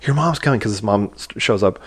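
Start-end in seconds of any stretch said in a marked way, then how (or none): 0.1-0.6 higher-pitched, imitating a kid freaking out; lightly acted alarm; mildly panicked warning. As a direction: retell a worried warning, pitched up. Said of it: "he's, like, freaking out".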